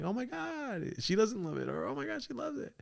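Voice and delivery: high breathy gasp; gasping whisper. Retold or imitated. Himself watching Ashley answer, hushed high gasp. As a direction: gasp it under your breath, shocked. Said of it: "and I'm like".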